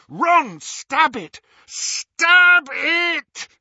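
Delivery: high, loud yell, building. Acted. Harry urging frozen Ron to strike, yelling. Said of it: "Harry yelled".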